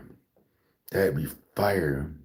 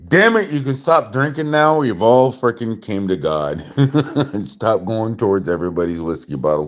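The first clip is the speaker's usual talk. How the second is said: much higher and louder, a joyful shout; excited shout; 8 semitones higher, 8 dB louder than usual. Retold or imitated. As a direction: call it out like a happy convert. Voicing people in heaven.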